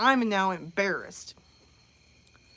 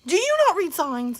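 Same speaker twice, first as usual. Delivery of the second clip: mom's scolding; 5 semitones higher, 3 dB louder than usual. Retold or imitated. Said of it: "my turn to turn into my mom".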